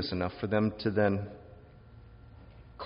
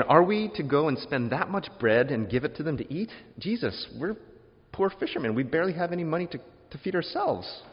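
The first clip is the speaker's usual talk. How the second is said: higher, incredulous pleading; exasperated protest; 4 semitones higher than usual. Retold or imitated. Poor fishermen protesting to Jesus, high and incredulous. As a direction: push back as if it's impossible. Disciples protesting feeding crowd.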